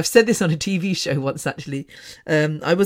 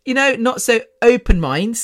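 "not so open minds" said louder and higher, with a rising, knowing tune; pointed sarcasm; 6 semitones higher, 5 dB louder than usual. Real, not acted. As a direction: stress the euphemism "not so open minds" with a loud knowing rise. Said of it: "I have to be very careful".

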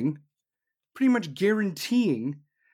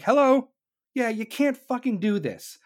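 mock NATO callout; 6 semitones higher than usual. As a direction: call out sharply like an angry alliance. NATO voiced warning.

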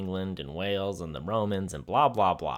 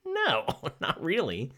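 slow, higher, drawn-out mock refusal; laughing refusal; 8 semitones higher, 3 dB quieter than usual. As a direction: stretch out the no, laugh, then decline. Imagined Australians decline invading England.

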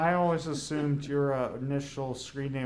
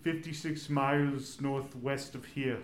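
put-on lightly Austrian-accented movie cyborg; Arnold. Giving the bunker's location as the cyborg, Arnold's Austrian accent. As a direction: read out directions with an Austrian accent. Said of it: "We haven't done enough Arnold impersonations".

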